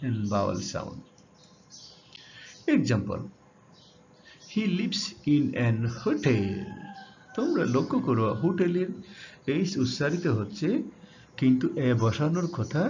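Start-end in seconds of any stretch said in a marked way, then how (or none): 6.0-6.5 hotel drawn out with the weight on TEL; slow hotel, leaning on its last syllable; second-syllable stress. Shown as a demonstration. Teacher reading an example to students, stress on hoTEL. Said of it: "ঠেল শব্দটিতে জোর দেয়া হয়েছে".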